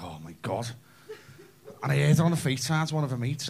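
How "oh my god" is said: mocking daughter. Daughter quoted, hushed.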